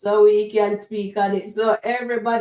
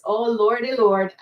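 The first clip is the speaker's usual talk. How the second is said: ordinary delivery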